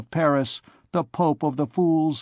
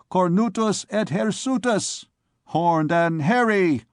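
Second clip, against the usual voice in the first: jeering; 5 semitones higher than usual. Acted. Students jeering chant.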